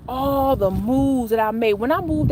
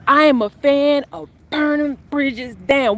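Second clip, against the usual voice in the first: louder and slower, leaning into each word; defiantly louder; 4 semitones higher, slower than usual. Shown as a demonstration. After joking she shouldn't say it loud, she says it louder anyway. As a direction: say it out loud on purpose, slow and bold. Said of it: "Let me not say that too loud".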